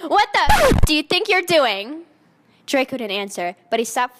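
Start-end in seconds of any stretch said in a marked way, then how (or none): 0.1-2.0 high, loud shriek of outrage; outraged yell. Acted. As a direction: scream at him in shock. Narrator's angry outburst quote.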